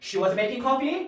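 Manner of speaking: pitch rising at the end on coffee. English lesson, turning a statement into a question: rising intonation on coffee. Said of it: "평서문에서 끝에만 올리셔도".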